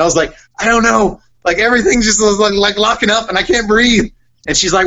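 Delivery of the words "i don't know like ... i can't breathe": high-pitched mock panic; high, breath-starved plea, played for the story; retold panic. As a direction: act out your younger self panicking. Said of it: "had a panic attack".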